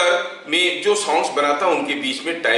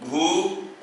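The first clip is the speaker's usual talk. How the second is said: "भुवनेश्वर" in five spaced-out sounds; syllable by syllable; 2 semitones higher, 4 dB quieter, faster than usual. Shown as a demonstration. Teacher asking students to count syllables, "भुवनेश्वर" syllable by syllable. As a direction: break "भुवनेश्वर" into bhu, ba, ne, shwa, ra with pauses. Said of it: "इसमें मैं कितना तो syllables".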